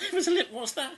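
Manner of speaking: high, soft, laughing squeak; squeaky puzzled. Real, not acted. Stuck on a child's handwriting, high laughing squeak.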